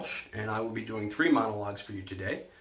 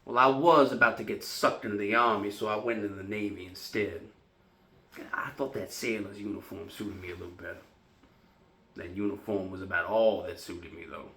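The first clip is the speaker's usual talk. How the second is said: put-on wry young Navy man. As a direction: reminisce wryly, letting each line sink. Performs Sweet Bird of Youth monologue.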